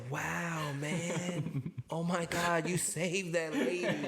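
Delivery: mildly hammed-up admiration; egging him on. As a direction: lightly feign being impressed. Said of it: "I'm egging it on".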